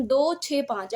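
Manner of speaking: "दो छः पाँच" read as three separate digits. Shown as a demonstration. Teacher showing how decimal places are read, digit by digit. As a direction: say "दो छः पाँच" one digit at a time. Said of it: "दो सौ पैंसठ नहीं पढ़ेंगे".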